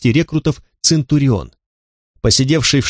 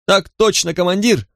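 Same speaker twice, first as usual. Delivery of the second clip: shouted answer; 6 semitones higher than usual. Acted. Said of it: "выкрикнул новобранец".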